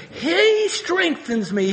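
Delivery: "He" drawn out high, then "strengthens me"; stress on HE. Real, not acted. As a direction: hammer a long, high "He". Repeats verse end, stressing who strengthens.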